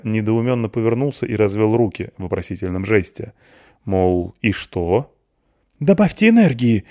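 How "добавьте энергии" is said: high, loud nervous outburst; nervous shout, higher and louder; nervous cry. A narrator's reading. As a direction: blurt it out in panic. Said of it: "нервно вскрикнул Воронцов".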